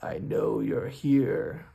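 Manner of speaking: slow, strange troll voice from the dark; a lurking troll, slow and menacing. Acted. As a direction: let the hidden troll speak slowly. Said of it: "this voice says".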